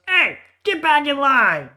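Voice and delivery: high, loud barked order to a soldier; goblin boss shout. Acted. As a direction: yell at the goblin breaking ranks. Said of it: "sees this goblin leaving formation and goes".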